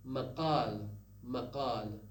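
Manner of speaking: MAQAL with a uvular stop Q; qaf pronunciation. Shown as a demonstration. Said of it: "the pronunciation of ق".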